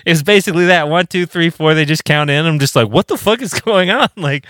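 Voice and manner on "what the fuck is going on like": higher, laughing mock panic. Fill-in guitarist lost as the church band starts, high laughing panic. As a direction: squeak it out through a laugh.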